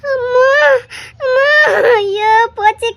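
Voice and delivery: sobbing cries of despair; distraught wailing; tearful lament.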